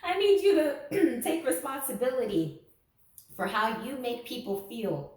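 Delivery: sarcastic mock reprimand. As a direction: scold them with a grin. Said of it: "you know I'm being sarcastic".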